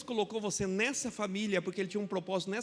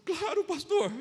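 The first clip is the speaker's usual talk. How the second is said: higher, louder sudden acceptance; eager yes; 8 semitones higher, 5 dB louder, slower than usual. Retold or imitated. Dying man accepts prayer. ("Claro, pastor" mais alto e animado)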